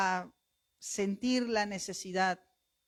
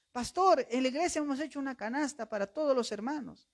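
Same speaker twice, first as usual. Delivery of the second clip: eager news; 4 semitones higher than usual. Retold or imitated. Church member bringing good news.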